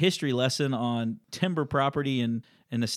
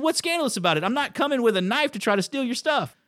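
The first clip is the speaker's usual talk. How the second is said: worked up again; 10 semitones higher than usual. Real, not acted. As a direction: let the outrage rise as you say it. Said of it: "As I'm getting worked up again".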